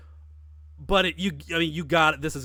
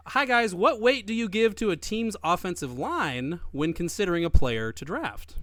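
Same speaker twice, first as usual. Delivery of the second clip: a hint of a British accent, pitched higher; mock British accent; 4 semitones higher, 3 dB louder than usual. Host reading a British listener's question in a light mock British accent. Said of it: "Andrew Schooler is British".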